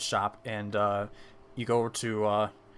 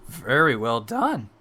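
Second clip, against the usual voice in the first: slow, louder admiring words; impressed praise; 7 dB louder, slower than usual. Acted. Merchant praises Takari's own kill, impressed praise. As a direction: draw out the compliment with weight.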